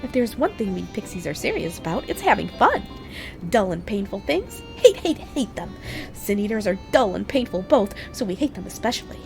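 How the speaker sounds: high, teasing fairy voice; a light, giggly sprite talking down to a mortal; playful pixie voice. Acted. Reads pixie NPC dialogue aloud.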